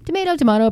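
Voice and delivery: "Tomato, tomato" as tuh-MAY-to, tuh-MAH-to; two pronunciations. Shown as a demonstration. Shrugging off the naming choice, "Tomato, tomato" as MAY then MAH. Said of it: "whatever you wanna call it".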